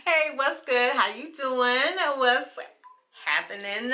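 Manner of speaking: talking while chewing gum; words round a wad of gum. Real, not acted. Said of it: "I have gum in my mouth".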